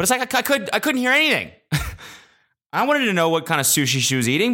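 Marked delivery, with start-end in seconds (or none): 0.0-1.5 high-pitched frustrated complaint; exasperated. Real, not acted. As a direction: whine it high, utterly baffled. Complains he could not hear.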